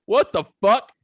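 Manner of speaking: loud, laughing through a shocked quote; laughing mock shock. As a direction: blurt it out while cracking up. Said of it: "he's just like".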